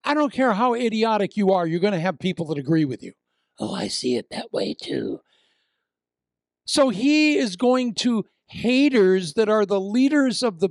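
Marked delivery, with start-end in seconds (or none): 3.6-5.2 a breathy whisper, smug; whispered mock agreement. Preacher voicing a hater agreeing, whispered and smug. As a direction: murmur it like a fellow gossip.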